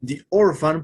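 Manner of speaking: "The orphan" with "the" said "di". Shown as a demonstration. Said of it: "lo estoy pronunciando de la misma manera". ("The orphan" con "the" dicho "di")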